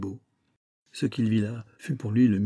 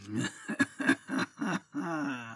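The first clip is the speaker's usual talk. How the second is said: cavernous cackle; 3 semitones higher, 5 dB quieter than usual. Acted. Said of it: "Ricane affreusement une voix caverneuse".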